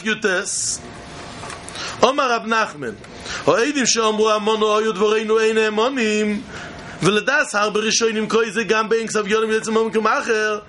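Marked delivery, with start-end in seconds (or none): 3.4-10.6 rapid Hebrew text chant; fast gemara reading. Acted. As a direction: rattle off the text quickly.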